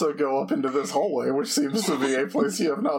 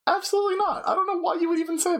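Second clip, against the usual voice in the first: mock indignation; 12 semitones higher, much faster than usual. Game master mock-denies player's paladin guess.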